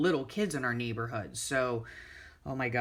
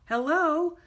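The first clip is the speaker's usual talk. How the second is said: sarcastic hello; 12 semitones higher, 5 dB louder than usual. Real, not acted. Scoffing at reckless garbage men.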